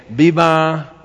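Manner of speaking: drawn-out "viva" cheer; festive cheer. Shown as a demonstration. Demonstrating the Independence Day cry to listeners, drawn-out cheer. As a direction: stretch it out like a mild rallying cry. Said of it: "como igual en el grito".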